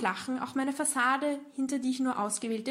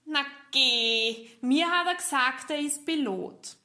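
higher and louder, offended little protest; indignant mouse; 4 semitones higher, 3 dB louder than usual. Acted. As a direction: defend him, a bit hurt. Lovestruck mouse defends bat. (empört, höher und lauter)

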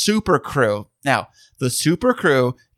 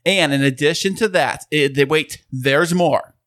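infomercial. Acted. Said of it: "You totally sound like an infomercial guy right now".

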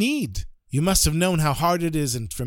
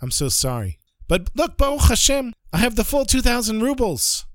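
higher, eager relieved outpouring; relieved rabbi; 5 semitones higher than usual. Acted. Rabbi relieved to see Ephraim back, eager and higher. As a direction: rush out relief at finding a lost friend.

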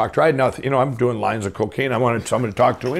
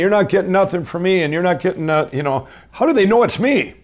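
raised, higher mock dealer refusal; tough street dealers; 8 semitones higher, 3 dB louder than usual. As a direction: play the dealers turning him away, a notch louder. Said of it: "They're going".

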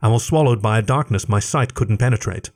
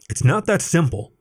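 higher, sharp retort; barked; 6 semitones higher than usual. A narrator's reading. Leif grabbing Alec's shirt: sharp barked retort. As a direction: bark it back at him. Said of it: "Leif barked".

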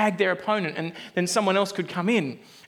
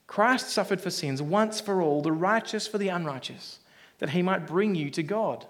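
scripture reading; 3 dB quieter than usual. Acted. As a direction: read the verse again with weight. Verse repeated slowly.

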